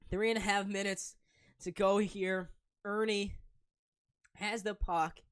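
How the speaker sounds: brisk, loud hockey play-by-play; live play-by-play. Acted. Stream commentator calling the Sabres game live for viewers. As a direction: call the game as it happens.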